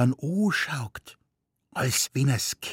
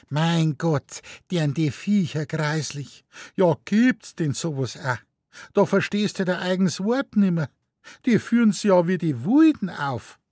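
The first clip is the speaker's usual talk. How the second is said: high, appalled exclamations; shocked lady; 8 semitones higher than usual. A narrator's reading. Lady in the cherry hat appalled by the noise, high. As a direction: recoil at the roaring beasts.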